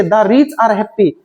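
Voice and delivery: very slow, word by word, for students to copy; slow dictation. Shown as a demonstration. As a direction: spell it out slowly for the class. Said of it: "वैसे देखिए". (छात्रों के लिए बहुत धीरे, शब्द-शब्द बोलना)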